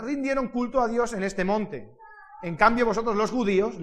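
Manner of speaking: measured, deliberate reading aloud; scripture reading. Acted. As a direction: read the verse out clearly to a congregation. Reads Bible verses aloud. (lectura bíblica solemne y pausada)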